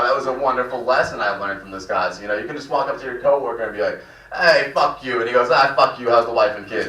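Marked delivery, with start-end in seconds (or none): 4.3-5.2 casual, raised-voice greeting to a coworker; swearing without anger. Acted. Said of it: "maybe you don't have to be angry to swear". 5.5-6.9 cheerful curse turning into small talk; swearing without anger. Acted. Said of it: "maybe you don't have to be angry to swear".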